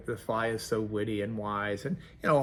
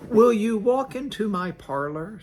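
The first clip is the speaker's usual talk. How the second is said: higher, louder sly invitation; spider; 8 semitones higher, 6 dB louder than usual. Acted. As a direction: tempt the fly sweetly. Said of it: "said the spider to the fly".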